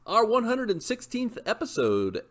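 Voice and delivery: high, very slow, drawn-out sermon opener; mock-solemn churchy welcome; preacher greeting. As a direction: greet the flock like a hammy preacher. Podcast host's grand preacher-style opening.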